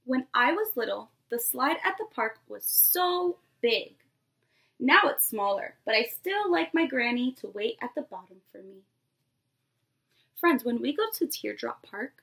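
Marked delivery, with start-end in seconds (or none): 0.0-8.8 lively picture-book read-aloud to a class; storybook voice for a nursery class; reading to children. Acted. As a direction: read it like story time for little kids. Teacher reads picture book aloud.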